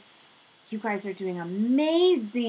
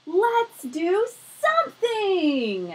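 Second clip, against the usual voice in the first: excited decision; 9 semitones higher, 5 dB louder, much slower than usual. Acted. Characters decide to act.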